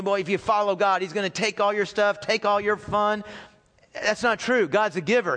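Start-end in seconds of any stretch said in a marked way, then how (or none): 0.0-3.2 even, level recital of a false belief; imitated misgiving. Preacher voices the mistaken view of God as taker, level misgiving. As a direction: list the supposed losses in a monotone. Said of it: "this tendency to look at God as".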